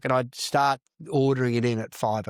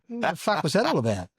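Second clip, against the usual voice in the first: bewildered quote; 6 semitones higher than usual. Retold or imitated. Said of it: "and go".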